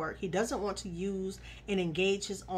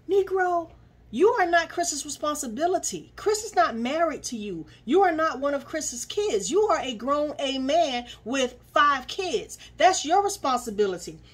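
indignant rant; 4 semitones higher, 4 dB louder than usual. Real, not acted. Ranting at cast member.

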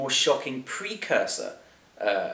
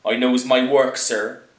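loud, grumbling servant; a touch of grumble at the master; 2 semitones higher, 6 dB louder, slower than usual. A narrator's reading. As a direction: grumble back as the put-upon servant. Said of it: "he grumbled".

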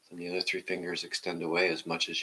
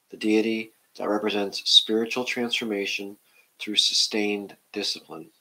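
measured, louder reading of a book passage; reading aloud; 4 dB louder than usual. Acted.

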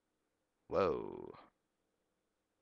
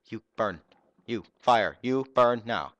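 shouted battle cry; 3 semitones higher, 8 dB louder than usual. Real, not acted. Casting fire at the enemy.

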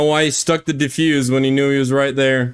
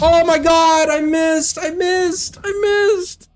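much higher, wailing in disbelief; real anguish at a miss; slower than usual. Real, not acted. Missed shot in game.

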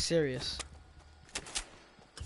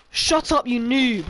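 angry yell; 4 semitones higher, slower than usual. Real, not acted. Yelling at an opponent.

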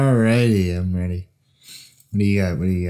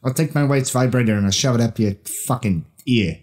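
Mark Wahlberg impression. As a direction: bark it like a hotheaded little bruiser. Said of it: "Mark Wahlberg".

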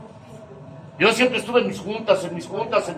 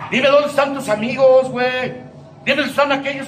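"Dime dónde están tus amigos" again, pushed louder and higher; demanding repeat, stress on "dónde"; 4 semitones higher, 3 dB louder than usual. Retold or imitated. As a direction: press the question harder the second time. Padrino scolding, repeated louder.

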